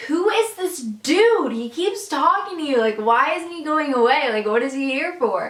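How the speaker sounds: mock the coworkers' shocked gossip; gossiping coworkers. Coworkers gossip about weird customer.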